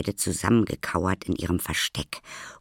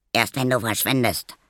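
put-on higher-pitched defiant boy's call; 6 semitones higher, 4 dB louder than usual. A narrator's reading. Boy throwing nuts at Maya, defiant call. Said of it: "rief der Junge".

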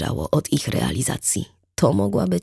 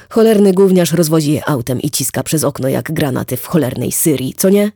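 grumbling rant, a bit louder; ranting neighbour; 5 dB louder than usual. Acted. Wit to Erika, griping about the paperboy, hammed-up rant. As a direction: gripe about the paperboy with mock outrage.

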